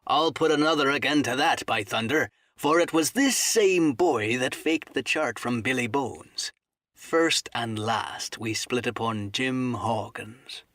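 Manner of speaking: lightly voiced aggrieved seaman; indignant sea cook. Silver accusing the boy before the crew, mildly indignant seaman. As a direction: accuse like an old sea dog, emphatic then slowing.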